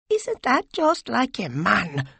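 high, slow scorn; drawn-out contemptuous sneer; angry contempt. A narrator's reading. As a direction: throw it back with bitter disdain. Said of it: "with angry contempt".

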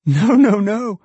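high, loud, gleeful denial; delighted cry. A narrator's reading. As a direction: burst out with delight. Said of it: "cried Meg, delighted".

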